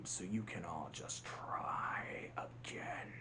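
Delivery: low, drawn-out hushed taunt; villain taunting the ants; slow sinister whisper. Retold or imitated. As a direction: breathe it like a veiled threat.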